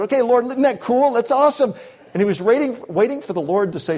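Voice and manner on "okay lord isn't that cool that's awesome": higher, louder, playfully amazed Peter. Retold or imitated. Peter marvelling at the Lord's power, lightly acted excitement. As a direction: gush like a delighted disciple. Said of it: "He said".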